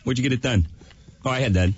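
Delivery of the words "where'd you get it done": buzzing robotic electrolarynx drone. Acted. Radio host does a larynx-less Danny bit. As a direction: talk through an electrolarynx.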